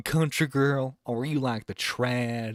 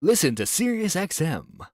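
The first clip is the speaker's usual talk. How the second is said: upbeat radio ad read; 5 semitones higher than usual. Shown as a demonstration. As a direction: pitch the station like an ad. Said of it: "You got the radio voice".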